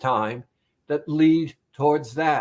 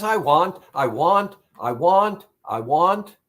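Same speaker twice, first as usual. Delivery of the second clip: nagging craving voice; 3 dB louder than usual. Retold or imitated. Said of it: "that voice says".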